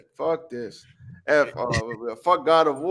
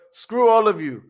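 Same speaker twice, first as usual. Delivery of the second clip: mock outburst; 7 semitones higher, 6 dB louder than usual.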